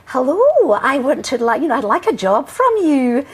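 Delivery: hammed-up posh phone voice, rising on the greeting; posh accent. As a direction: put on a posh voice for a job call. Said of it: "I speak rather sort of posh".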